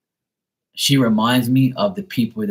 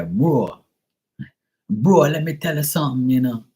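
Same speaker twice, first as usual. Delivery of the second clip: high-pitched mock Jamaican; joking Jamaican accent, pitched up; 5 semitones higher, 4 dB louder than usual. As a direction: imitate a Jamaican saying "bro". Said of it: "the Jamaicans are starting to say".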